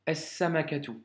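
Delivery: As-samakatu, s doublé, sans L; As-samakatu avec assimilation du lam; liaison solaire. Shown as a demonstration. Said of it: "je n'ai pas dit el samakatu". (prononciation arabe modèle)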